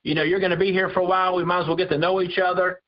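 put-on breezy and folksy, like an old buddy; lightly voiced casual God; mock casual God. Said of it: "God didn't come to Samuel and just say".

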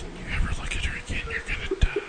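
fast threatening whisper; menacing whisper. Retold or imitated. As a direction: whisper a death threat in his ear. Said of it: "she's gonna whisper is".

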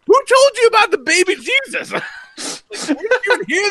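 high, laughing disbelief; laughing through the question. Real, not acted. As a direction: laugh while you ask it. Laughing at the kid's weird claim.

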